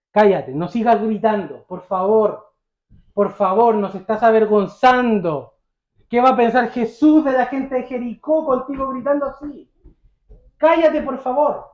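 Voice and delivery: acted embarrassed scolding, building in pitch; exasperated rebuke. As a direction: plead and scold to silence a shouting beggar. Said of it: "le reprendían".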